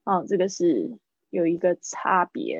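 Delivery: ordinary delivery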